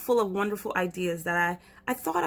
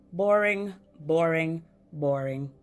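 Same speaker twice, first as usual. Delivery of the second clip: bored; 3 semitones lower than usual. Acted. Bored boy at his desk, sinking into boredom. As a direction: drag out boring, boring, boring as if sinking into boredom. Repeated bored sighs falling.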